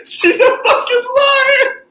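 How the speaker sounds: slow, high repeat of the punchline; mock farmer voice, laughing; imitating farmer. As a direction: savor the line back.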